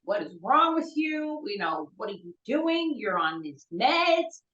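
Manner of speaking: retold alarmed scolding, pitch leaping up; exasperated scolding. Mother confronts her son over cocaine, exasperated. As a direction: re-enact a mother's exasperated reproach.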